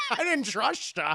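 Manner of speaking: smug slushy-s father impression; Sean Connery. Father teases son about Elsa, smug impression. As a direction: say it through a little smile. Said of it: "Sean Connery gets this little smile".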